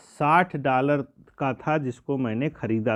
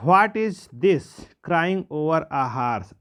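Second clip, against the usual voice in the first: uncle shouting; much slower than usual. Retold or imitated. Irritated uncle scolds the farmer over the horse, mock shout. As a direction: bark it at the farmer like the angry uncle. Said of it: "चिल्लाए".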